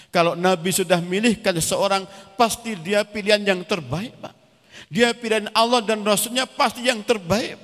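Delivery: imitating an earnest, forceful appeal; insistent daughter. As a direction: press the point urgently, high and loud. Daughter urges father to accept suitor.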